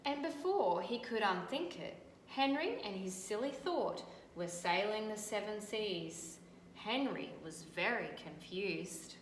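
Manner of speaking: put-on bright, lively read-aloud for children; storybook reading. A narrator's reading. Teacher reading a picture book to children, lively storytelling. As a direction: tell the story to a class of kids.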